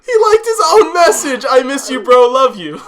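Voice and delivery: high, loud outburst of disbelief; incredulous shout. Real, not acted. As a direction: yell it out, stunned and thrilled. Amazed shouting at the reveal.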